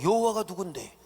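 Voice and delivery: a mocking, scornful king, slowing on 감히 and rising into a half-sung sneer; 듣도 보지도 못한 신을 비웃는 바로; defiant Pharaoh. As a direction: sneer at this unknown god. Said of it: "이 바로가 뭐라고".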